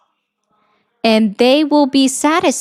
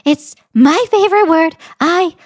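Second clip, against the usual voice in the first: imitating Trump; 4 semitones higher than usual. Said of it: "That's Donald Trump".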